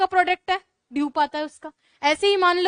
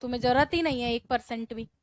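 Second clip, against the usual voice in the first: dismissive; 4 semitones lower, 5 dB quieter than usual. Retold or imitated. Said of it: "मैंने कहा".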